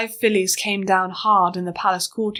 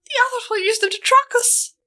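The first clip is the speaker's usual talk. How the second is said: whimpered. Acted. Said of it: "Wire whimpered".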